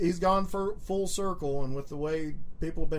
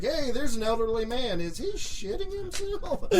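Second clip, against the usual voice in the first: mock puzzled alarm; 4 semitones higher, 4 dB quieter than usual. Acting his reaction at the concert.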